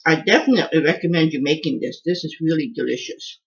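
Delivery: talking with a mouth full. Real, not acted. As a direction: speak through a bite of food. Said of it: "Don't talk with your mouth full".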